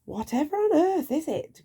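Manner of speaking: high sleepy grumble; Mister Nonsense grumbling at his friend. Acted. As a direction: woken and put out. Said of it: "grumbled Mister Nonsense".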